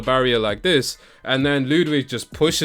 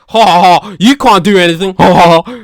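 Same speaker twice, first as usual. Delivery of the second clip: taunting Liv; 5 semitones higher, 11 dB louder than usual. Retold or imitated. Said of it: "a bit like".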